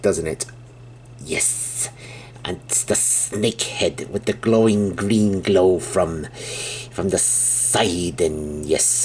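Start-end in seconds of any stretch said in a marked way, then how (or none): 1.2-9.0 hissing snake voice, drawn-out s. Pretend. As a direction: hiss the words like a snake, slow. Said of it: "trying to talk like a snake".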